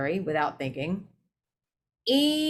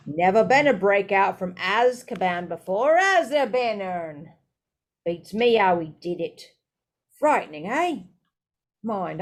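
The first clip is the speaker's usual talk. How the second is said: gossiping Stan; 3 dB louder than usual. Acted.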